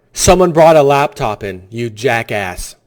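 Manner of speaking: loud start, then a slow, disgusted jackass; angry scorn. Real, not acted. Host scolding the governor over the laptop, angry. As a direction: spit the insult out slowly.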